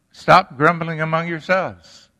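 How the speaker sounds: preacher voicing Jesus, telling the grumbling crowd to stop; commanding rebuke. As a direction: scold the grumbling crowd from up high.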